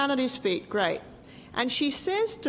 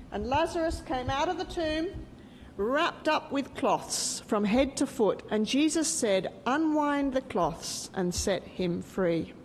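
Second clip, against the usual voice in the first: story narration. Acted. Teacher telling children the story of Lazarus, gentle storytelling. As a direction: unfold the Bible story line by line.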